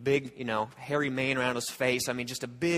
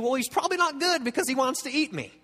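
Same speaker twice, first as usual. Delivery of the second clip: mock conclusion; 10 semitones higher, faster than usual. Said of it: "you draw the conclusion".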